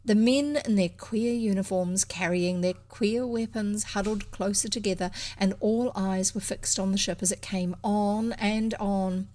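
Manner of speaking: deliberate, expressive storybook reading; story narration. A narrator's reading. Reader describing men watching the ship, suspenseful story narration. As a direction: read it aloud with measured suspense.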